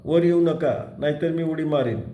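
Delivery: shouting threat. Acted. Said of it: "तो एकदम ओरडला".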